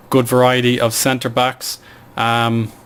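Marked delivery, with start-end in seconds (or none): 2.2-2.7 talking through hiccups; hiccuping between words. Real, not acted. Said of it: "I'm just hiccuping".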